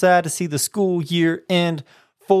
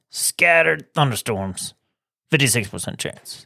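whisper. Acted. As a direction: breathe it like a secret. Weather read as whisper.

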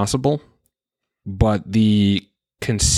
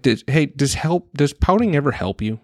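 lightly voiced higher parent talk; parent to child; 6 semitones higher than usual. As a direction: gently imitate questioning a pouting kid. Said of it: "it's kinda like what I tell my kids".

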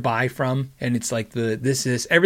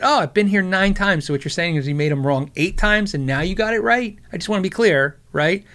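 sarcastic; 4 semitones higher than usual. Retold or imitated. Pointing out to the waitress they cooked them wrong, sarcastic. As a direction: needle her with sarcasm. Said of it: "I was just being sarcastic".

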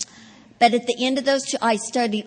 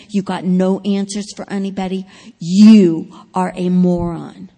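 louder self-scolding voice, building to a yell; harsh inner voice; 6 dB louder than usual. Retold or imitated. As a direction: berate yourself as a moron. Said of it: "my inner voice was saying".

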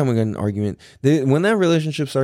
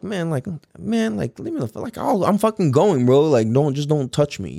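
higher-pitched, mildly aggrieved; retold exasperated protest; 5 semitones higher than usual. Telling guards escorting him out, mildly exasperated protest. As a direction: replay fending off guards, pitched up.

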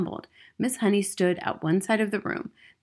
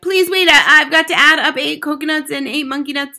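put-on high, loud pleading boy; frantic schoolboy begging for time; flustered cry; 9 semitones higher, 11 dB louder than usual. A narrator's reading. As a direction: stumble through it in a panic. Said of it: "he cried".

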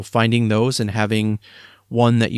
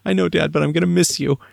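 put-on child's voice; 7 semitones higher than usual. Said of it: "son's reply in retold exchange".

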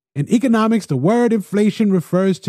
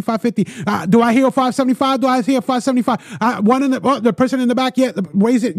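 lightly voiced auctioneer, higher and brisk; 6 semitones higher than usual. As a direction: call the bids like an auction house. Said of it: "now he becomes an auctioneer".

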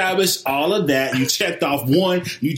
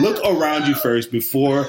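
hard sell ad. Pretend. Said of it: "You sound like a commercial right now".

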